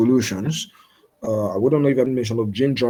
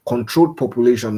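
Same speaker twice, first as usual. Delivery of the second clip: mild emphasis on "controlled"; stress on controlled; 3 dB louder than usual. Real, not acted. Lecturer flags a key condition to students, stress on "controlled". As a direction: lean a little on the word "controlled". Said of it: "emphasis on the word controlled population".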